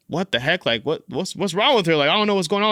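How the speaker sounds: exasperated confusion, retold; retold frustration. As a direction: sound bewildered and fed up, pitch climbing. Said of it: "I'm getting frustrated".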